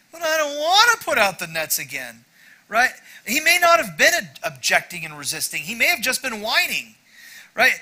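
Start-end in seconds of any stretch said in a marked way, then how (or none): 0.1-2.2 whiny voice. Retold or imitated. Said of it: "perhaps he was using his whiny voice".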